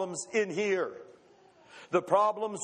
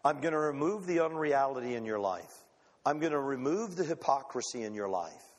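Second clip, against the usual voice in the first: God's voice; 5 semitones lower than usual. Acted. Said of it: "and he says this".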